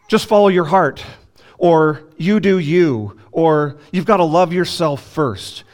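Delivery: mocking slogans. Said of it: "cultural slogans like".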